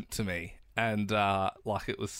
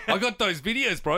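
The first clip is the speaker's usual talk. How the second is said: mock taunt, laughing; 7 semitones higher, 4 dB louder than usual. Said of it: "I'm like".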